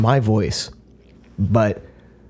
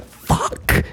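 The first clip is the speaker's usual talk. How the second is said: mock exasperation. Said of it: "it's like".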